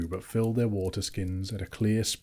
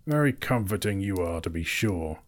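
growled. Acted. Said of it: "growled Thorin".

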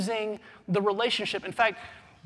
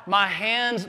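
mock cry of pain; 2 semitones higher, 5 dB louder than usual. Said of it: "Jesus does not cry out".

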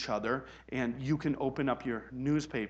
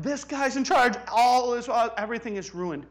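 high, loud mock lament; mock panic; 11 semitones higher, 8 dB louder than usual. Mimicking believers lamenting the new president, mock despair. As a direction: ham up the doom. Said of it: "everybody is like".

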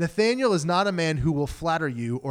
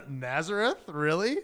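incredulous disdain with a rising question; skeptical, drawn-up questioning; disdainful. Acted. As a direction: say it like you can't believe they'd even suggest it. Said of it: "think of the disdain".

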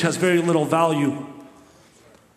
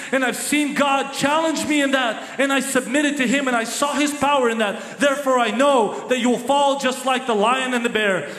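raised, rising to a near shout of faith; defiant David; 6 semitones higher than usual. Acted. Young David answers Goliath, defiant and building to a shout. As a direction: stand firm and declare it. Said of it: "And David says".

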